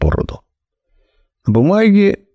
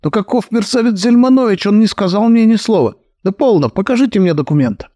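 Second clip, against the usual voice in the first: Kalman fuming, protesting his innocence in a high voice; rattled, pitched up and indignant; fuming, higher; 9 semitones higher, faster than usual. Acted. Fuming heir denies knowing of the new will, high and indignant. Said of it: "кипятился он".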